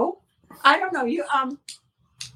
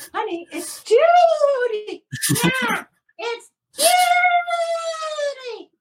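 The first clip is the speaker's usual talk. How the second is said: wailing puppet voice; 11 semitones higher, much slower than usual. Acted. Puppet calling out, measured cry.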